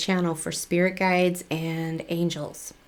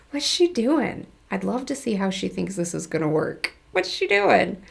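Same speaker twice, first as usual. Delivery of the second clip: amused guide. Retold or imitated. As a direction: tease her like an amused onlooker. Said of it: "one of them laugh and go".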